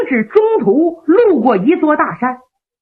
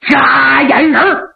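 slow, drawn-out shouted call; battle cry. Acted. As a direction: bellow it slowly with the blow. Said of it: "嘴里还在喊".

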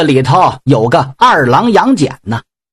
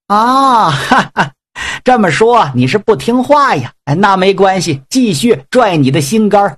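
mocking threat; 4 semitones higher than usual. Yang Jian threatens.

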